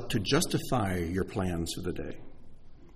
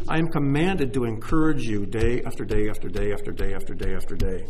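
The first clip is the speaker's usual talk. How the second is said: loud, rolling "day after day"; insistent repetition; 6 dB louder than usual. Real, not acted. Preacher insisting he must encourage them daily, loud and rolling. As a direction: keep hammering "day after day". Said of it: "rhetorical repetition".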